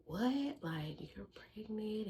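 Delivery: high, questioning mock disbelief; acted incredulous question; shocked mama. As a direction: imitate a stunned mother, pitch jumping up. Voicing mama's shocked reaction.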